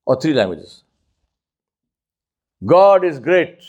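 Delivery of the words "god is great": declaimed. Shown as a demonstration. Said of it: "let me say the same thing in two languages".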